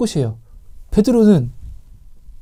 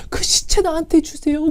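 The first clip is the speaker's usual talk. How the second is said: higher, softer plea for "그 시체 나한테 주세요"; mild tearful plea; 7 semitones higher, 4 dB quieter than usual. Retold or imitated. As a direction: beg softly, a hint of tears. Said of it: "울면서 이렇게 고백하겠냐고요".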